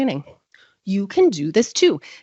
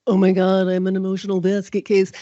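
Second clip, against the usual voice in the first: mock panic. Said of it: "is not just like".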